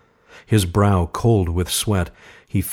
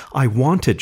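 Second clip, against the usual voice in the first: usual speaking voice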